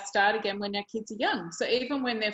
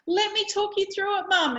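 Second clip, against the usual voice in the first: excited; 10 semitones higher, 4 dB louder than usual. Retold or imitated. Daughter explaining to her mum.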